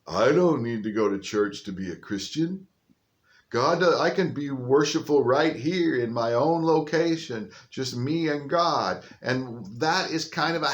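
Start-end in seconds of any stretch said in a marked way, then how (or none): 0.1-9.0 mock churchless Christian. Pastor voicing people who say they skip church, lightly mocking. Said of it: "one of the things that I hear from people".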